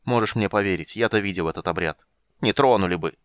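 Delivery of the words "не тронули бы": lightly mimicked thin girl's voice; mock a thin girl's voice, lightly; mocking girlish voice. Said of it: "передразнил он тонкий девичий голос".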